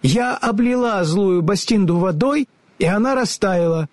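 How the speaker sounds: put-on high, earnest young girl; girl's voice. A narrator's reading. Ellie asks the wizard to keep his promises, earnest. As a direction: ask politely like a brave little girl.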